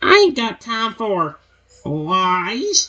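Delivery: high, very slow, drawn-out monster snarl. A narrator voices a growling creature answering someone's calm voice: snarling. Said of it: "he snarls".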